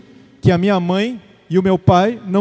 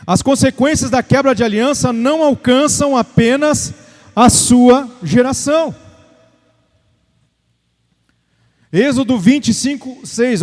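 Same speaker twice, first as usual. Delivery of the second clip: emphatic, raised preacher's delivery; preaching; 4 semitones higher, 3 dB louder than usual. Real, not acted. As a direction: exhort the congregation with driving repetition. Preaches warning to congregation. (pregação enfática, exortando a igreja)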